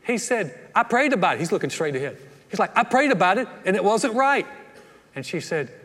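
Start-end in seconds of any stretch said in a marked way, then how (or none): 0.7-4.5 higher and louder, a stubborn insisting husband; hint of a defensive husband. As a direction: dig in, defensive.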